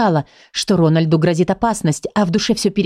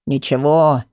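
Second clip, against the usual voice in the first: a lower, grumbled word; gruff grumble; 5 semitones lower, slower than usual. Acted. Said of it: "буркнул Герхард". (буркнуть ниже)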